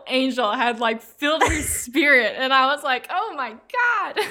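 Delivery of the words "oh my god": very slow, higher, breathless wonder; awed. Retold or imitated. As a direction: let it out slowly in awe. Awed by the angelic singing.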